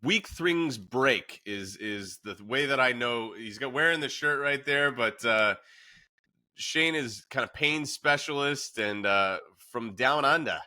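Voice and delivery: a rough, overdone attempt at an Australian accent; mock Australian accent, half laughing at yourself; bad Australian accent. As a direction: lay on a clumsy Aussie twang. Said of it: "that was the worst Australia".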